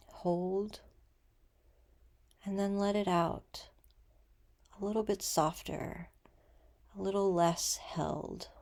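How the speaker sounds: gentle meditation guide, unhurried with long pauses; guided meditation. Acted.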